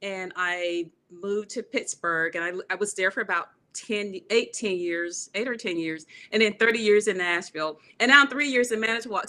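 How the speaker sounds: usual speaking voice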